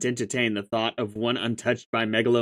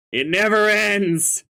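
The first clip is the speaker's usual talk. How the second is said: higher, slow, mock despair; exasperated wail; 9 semitones higher, 4 dB louder, slower than usual. Real, not acted. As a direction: wail it out like a long-suffering victim. Yet another troll contacts him.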